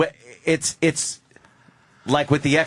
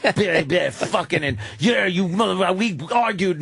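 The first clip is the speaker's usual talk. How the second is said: imitated arguing couple; 5 semitones higher than usual. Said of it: "could see it like this".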